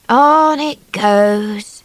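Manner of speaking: slow, breathy hushed sigh of the words; weary whisper. A narrator's reading. Drifter to children, whispering wearily. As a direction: whisper it, worn out. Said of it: "said poor baby".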